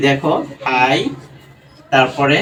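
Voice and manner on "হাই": হাই as a lone, drawn-out syllable; first syllable হাই held apart; broken into syllables. Shown as a demonstration. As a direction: sound out হাই on its own, slightly lower. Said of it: "এটাকে যদি আমরা ভাঙি".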